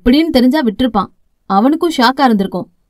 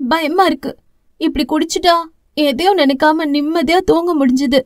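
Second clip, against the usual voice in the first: a touch higher, small remorseful voice; lightly voiced young sister; 3 semitones higher than usual. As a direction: confess it like a sorry little sister. Sister confesses to brother.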